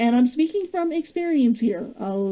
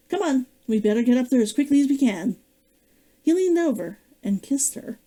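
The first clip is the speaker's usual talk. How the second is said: steady, even read-aloud narration; measured storybook reading with quoted dialogue; story narration. Acted. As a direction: read the chapter to listeners. Author reads her novel aloud.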